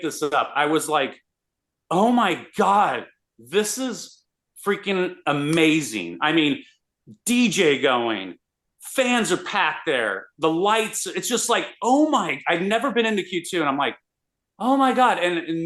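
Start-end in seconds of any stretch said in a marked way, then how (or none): 1.9-6.2 amazed. Retold or imitated. Walking into stadium, amazed. 14.6-15.2 amazed. Retold or imitated. Amazed seeing stadium.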